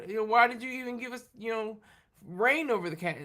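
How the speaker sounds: lightly voiced sassy child talking back; a hint of a whiny kid complaining; mouthy kid. Parent imitating a mouthy child talking back, lightly whiny. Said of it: "That's when they get mouthy".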